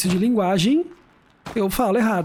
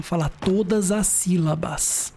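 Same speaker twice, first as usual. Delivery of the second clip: slow, every syllable; slower than usual. Shown as a demonstration. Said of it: "Filho, calma, calma".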